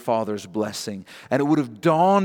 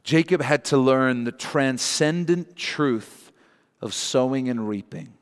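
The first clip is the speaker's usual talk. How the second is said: slow dictation. Shown as a demonstration. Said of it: "So write this down".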